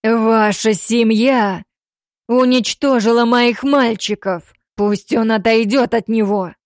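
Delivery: slow, loud enraged accusation; growling. Acted. Father accusing the family over his sons, slow angry growl. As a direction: growl out the grief and rage. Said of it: "прорычал Сатранов".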